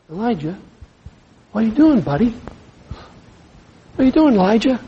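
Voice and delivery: gentle voice of God. Acted. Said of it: "Gentle, loving God".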